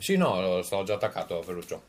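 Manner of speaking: chewing while talking; mouth full. Real, not acted. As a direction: talk through a mouthful. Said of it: "masticando ormai proprio".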